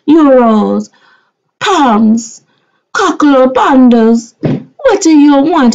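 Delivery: bossy demand. Retold or imitated. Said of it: "I called Angela up and I said".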